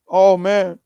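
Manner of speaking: hiccup breaking the words. Real, not acted. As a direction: voice jumping from hiccups. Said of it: "Sorry, these hiccups".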